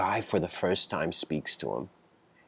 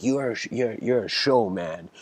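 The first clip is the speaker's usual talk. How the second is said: retold shout; 5 semitones higher than usual. Kid yelling at the silent old man, mock shout. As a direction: hurl it at him like a half-played outburst. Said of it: "he shouts".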